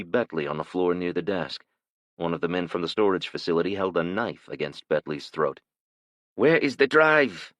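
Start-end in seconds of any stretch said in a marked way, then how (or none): 6.3-7.5 put-on slow, higher, louder menacing question in a thick Asian accent. A narrator's reading. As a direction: interrogate him slowly in a heavy Asian accent. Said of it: "in a thick Asian accent".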